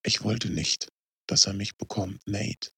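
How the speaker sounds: soft, weak confession; dying man speaking faintly. Acted. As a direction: barely get the words out. Dying Riley speaks weakly.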